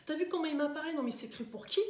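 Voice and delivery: mock outraged grumbling, pitch jumping up; indignant complaining passenger. Complaining passenger after an hour's delay, indignant. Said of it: "Est-ce que vous allez être celle qui est là".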